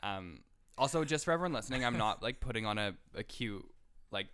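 hoarse after throat sickness; rough, worn-out voice. Real, not acted. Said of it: "I got throat sick and I lost my voice".

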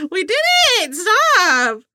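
high, flustered laughing protest; squirming, giggly denial; embarrassed giggling. Real, not acted. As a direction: laugh it off, red-faced. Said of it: "Why are you turning red?".

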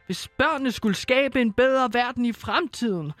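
gentle fairy-tale narration. Acted. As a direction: read it like a bedtime Christmas tale. Reads Christmas story aloud. (blød hyggelig julefortælling)

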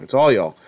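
all y'all with weight on all; stress on all. Shown as a demonstration. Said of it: "all y'all is the proper plural".

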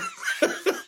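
airy high-pitched giggle; real giggle; high squeal of laughter. Real, not acted. Still laughing.

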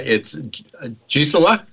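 Gisela said haltingly, rising like a question; unsure name attempt. Real, not acted. Host checking a guest's name, "Gisela" tentative and rising. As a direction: feel your way into "Gisela", ending on a questioning rise. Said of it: "I keep butchering her name".

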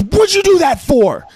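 put-on high, hurt little-boy protest; shocked young son. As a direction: squeak it out like a stunned kid. Son's shocked reply after hit.

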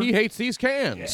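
high, loud, drawn-out cry; hammed-up high yell; mock alarmed shout. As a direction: call it out in comic alarm. Jokey quoted outcry over the talk.

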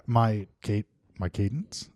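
halting "my ca-, my cadence", breaking off and restarting. Retold or imitated. Teasing a co-host's cadence, halting "my cadence" with pauses. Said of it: "he offers pause".

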